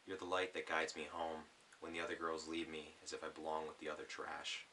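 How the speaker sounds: gentle spoken-word reading; poem reading. Acted. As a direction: read it like a poem to an audience. Reads his poem aloud.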